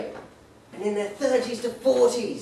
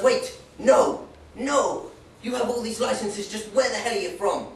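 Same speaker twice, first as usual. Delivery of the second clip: calling after him; 2 semitones higher, 4 dB louder, slower than usual. Retold or imitated. Warden calling back.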